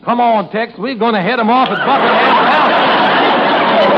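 put-on English act lapsing into cowboy accent; Western accent. Pupil forgetting his English role, slipping into Western accent. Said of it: "You sound like a hop-along James Mason".

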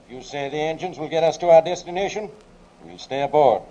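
stern shouted command down the tube; shouted warning. Acted. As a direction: call it out forcefully, as an ultimatum. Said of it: "tube and shouted".

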